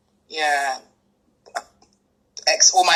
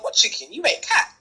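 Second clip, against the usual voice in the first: teasing reveal; 7 semitones higher than usual. Retold or imitated. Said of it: "They was like".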